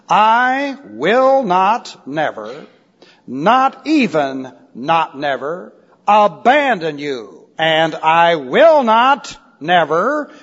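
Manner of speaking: slow, weighty word-by-word delivery; measured, spaced-out verse reading; emphatic scripture recitation. Acted. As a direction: recite the promise deliberately, each word set apart.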